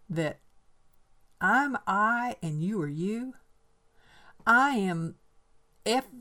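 high, loud, fervent wondering; eager twelve-year-old girl. Acted. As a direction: press the idea breathlessly. Reads Frankie's speech.

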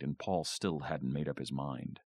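plain reading voice

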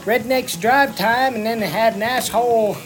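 put-on Southern redneck accent with swooping tune. Redneck host opening his review for listeners, redneck accent. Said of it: "I'm the redneck".

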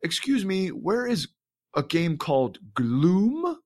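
high, slow imitation of a puzzled old lady. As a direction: ham up a lost old lady asking the clerk. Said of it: "some old lady came in and she's like".

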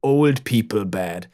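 put-on deliberate, emphatic German-accented diagnosis; German doctor. German doctor explaining old age to the sheriff, German accent. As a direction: lecture like a German physician. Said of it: "The German doctor".

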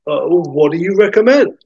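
courteous, tentative, pitch lifted; hesitant but polite. Acted. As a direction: ask politely, unsure of yourself. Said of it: "hesitant but polite".

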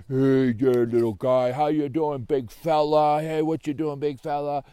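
loud, chummy pet talk; hearty dog greeting. Acted. Greeting a friendly dog, loud and hearty.

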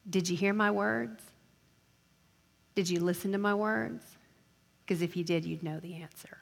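quiet, measured professor rebuke; professor's reply. Acted. Professor answering an unprepared student, understated rebuke. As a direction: let it drop softly to the end. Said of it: "your professor will say".

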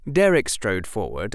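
ordinary delivery, nothing marked

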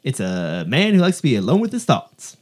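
lightly put-on Southern accent, explaining to a son. Father explains a rude word to his son, imitated Southern accent. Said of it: "that lovely Southern accent".

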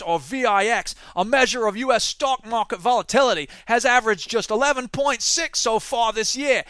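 a rough, self-admitted bad Australian accent on a news read; mock Australian accent. Reading Australian business news to listeners in a mock Australian accent. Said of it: "I didn't give up on that Australian accent".

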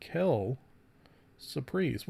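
quelle whispered, surprise soft and breathy. Real, not acted. Host repeating the phrase to himself, whispered quelle surprise. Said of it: "which is French for".

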